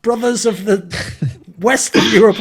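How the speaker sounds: high-pitched put-on fan gushing; mock brotherly enthusiasm. Portuguese fans claiming a Spanish player, mock brotherly enthusiasm. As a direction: gush about shared brotherhood, sending it up. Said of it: "just be like".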